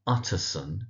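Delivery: Utterson with stress on UT; stress on first syllable. Shown as a demonstration. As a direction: lean on the "Ut" of Utterson. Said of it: "emphasis on the ut".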